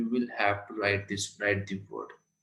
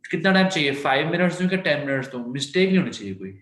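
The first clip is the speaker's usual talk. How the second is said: brisk teacher; 4 semitones higher, 4 dB louder, much faster than usual. Real, not acted. Teacher pressing class on time.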